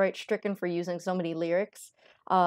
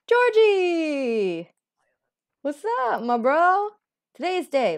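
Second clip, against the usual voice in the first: Georgie; 6 semitones higher, 5 dB louder, slower than usual. Pretend. Voicing entrant character.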